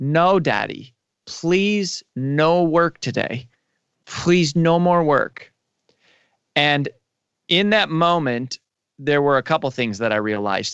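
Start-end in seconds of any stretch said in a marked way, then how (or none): 0.0-5.5 put-on child voice, slow, tearful pleading. Retelling a little girl's reply to her daddy, imitating a tearful plea. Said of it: "her little eyes welled up with tears and she says".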